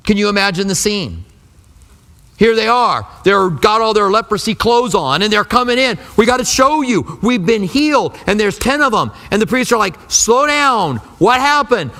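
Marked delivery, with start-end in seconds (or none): 2.4-11.9 excited. Acted. Excited lepers rushing to priests.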